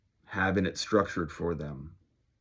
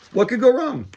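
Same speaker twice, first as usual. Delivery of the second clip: sarcastic; 9 dB louder than usual. Real, not acted. Ironic about crazy times ahead.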